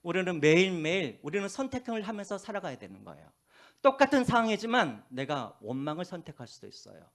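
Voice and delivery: ordinary talk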